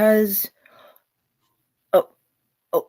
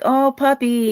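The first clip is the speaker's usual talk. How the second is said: imitating his delight, higher and louder; lightly voiced spirit spotting a dog; excited spirit quote; 7 semitones higher, 5 dB louder than usual. Medium relaying the spirit's reaction to a puppy, excited imitation. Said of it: "He's like".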